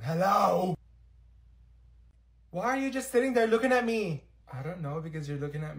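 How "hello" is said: calling out. Acted. Calling to a silent student.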